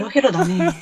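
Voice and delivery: flat, listless deadpan delivery; Ebisu-like deadpan. Real, not acted. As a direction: say it limp and unbothered. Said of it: "蛭子さんみたいなテンションで言うね".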